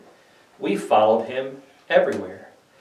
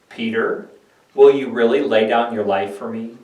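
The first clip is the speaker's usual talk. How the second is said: soft sorrowful question. Acted. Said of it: "responded to Peter softly, tenderly, with a sort of sorrow".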